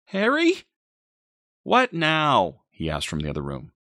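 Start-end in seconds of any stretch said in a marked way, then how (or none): 0.1-0.6 very high, louder rising call; alarmed call. A narrator's reading. Mother calls boyfriend from nursery, high alarmed call. 1.6-2.6 exasperated, higher and louder; annoyed shout. A narrator's reading. Boyfriend answers from other room, annoyed shout.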